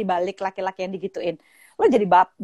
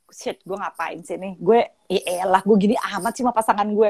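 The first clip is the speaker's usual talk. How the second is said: regretful. Retold or imitated. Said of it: "Momen penyesalan ya".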